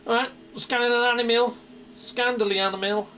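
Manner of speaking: mock exosuit system voice; exo voice. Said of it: "that's my exo voice".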